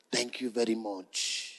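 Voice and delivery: lightly voiced Latina accent, soft and slow; a hint of a Latina accent in English. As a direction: cashier thanks the pastor with a Latina accent. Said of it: "en su voz latina".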